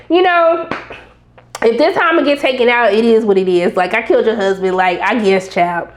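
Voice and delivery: low, resigned retelling of a calm plea. Retold or imitated. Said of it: "very calm about it".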